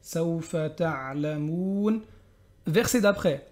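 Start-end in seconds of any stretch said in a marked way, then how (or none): 0.0-2.0 chanted Hatta zurtumul maqabir, very slow; drawn-out chanted verse; slow recitation. Shown as a demonstration. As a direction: recite it like a Quran reader. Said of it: "on reste bien dessus".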